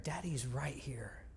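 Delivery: slow, soft whisper; quiet whisper. Retold or imitated. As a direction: breathe it like a lullaby. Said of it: "and quiet".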